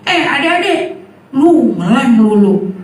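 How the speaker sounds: pretend brave. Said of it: "saya pura-pura berani".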